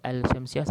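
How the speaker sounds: "Al-Syamsiyah" loud, with an audible L before sh; mistaken sounded lam. Shown as a demonstration. Teacher quoting the wrong reading, L sounded in "Al-Syamsiyah". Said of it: "salah lah".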